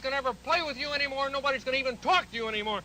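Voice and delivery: fast, rushed angry threats; a furious rant at the monster; mad rant. Shown as a demonstration. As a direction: rattle off the threats in a fury. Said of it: "you can tell I'm mad".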